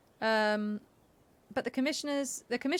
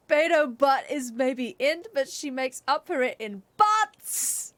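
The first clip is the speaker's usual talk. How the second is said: playful tease; 3 semitones higher, 4 dB louder, slower than usual. Acted. Joking gasp wordplay.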